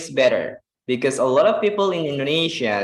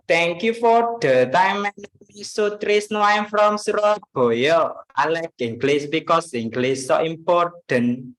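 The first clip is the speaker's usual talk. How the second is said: Sutrisno; 3 semitones higher than usual. Retold or imitated. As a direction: do a Javanese English learner, pitched up, Javanese intonation. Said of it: "Dia ngomong kayak gini".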